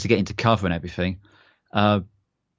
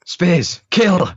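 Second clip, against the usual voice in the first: louder and higher barked order; mock battle command; 8 semitones higher, 6 dB louder than usual. Sink sending Spears in, a hammed-up shouted command. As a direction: unleash him like an attack dog.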